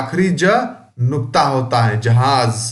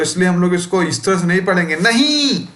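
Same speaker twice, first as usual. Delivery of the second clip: wrong exclaimed reading; faster than usual. Shown as a demonstration. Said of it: "ऐसे नहीं पढ़ना है".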